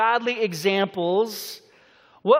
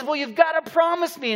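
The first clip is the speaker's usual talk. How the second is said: insistent husband; 6 semitones higher than usual. Retold or imitated. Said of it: "But then he says".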